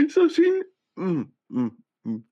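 words squeezed out high through laughter; laughing. Real, not acted. Still laughing at the clip, trying to talk. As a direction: talk while still cracking up.

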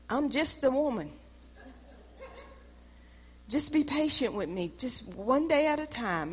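soft, whimpering mock excuse; hammed-up self-pity, hushed; mock pleading. Preacher mocking a churchgoer begging patience, soft and whiny.

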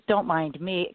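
normal talking voice

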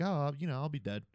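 offhand, casual imitation; nonchalant retelling. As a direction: toss it off as if it were nothing. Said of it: "just very nonchalant".

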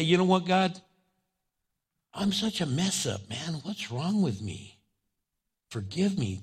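humble prayer. Acted. Humble prayer voiced as example.

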